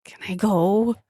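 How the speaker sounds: nerdy nasal voice. Retold or imitated. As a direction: whine it like a nasal nerd. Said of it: "the nerd nasally voice".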